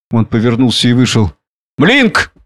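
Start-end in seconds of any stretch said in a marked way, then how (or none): 1.8-2.3 high-pitched hail; calling out. A narrator's reading. Drunken man calls his servant outside, calling out. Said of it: "крикнул он".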